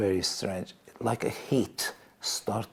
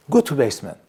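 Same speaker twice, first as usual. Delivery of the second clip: father's order; 5 semitones higher, 9 dB louder, faster than usual. Retold or imitated. Father orders him to basement.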